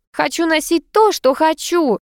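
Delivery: high shrill protest; squealing. A narrator's reading. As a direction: squeal it like a spoiled child. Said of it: "взвизгнула красавица".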